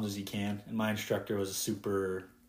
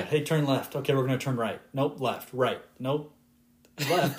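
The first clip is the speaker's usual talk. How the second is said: lightly acted back-and-forth of directions, pitched up; higher-pitched mock radio instructions; imitated radio corrections; 5 semitones higher, 3 dB louder than usual. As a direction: mimic an exchange of turn corrections. Acts out repeated tower corrections.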